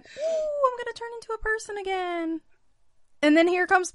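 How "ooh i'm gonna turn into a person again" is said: werewolf turning human. Retold or imitated. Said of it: "homie is like".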